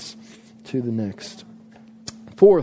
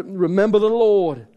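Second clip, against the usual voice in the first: raised, badly faked Scottish accent; hammed-up Scottish battle cry; 5 semitones higher, 4 dB louder than usual. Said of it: "thinking of a Scottish accent".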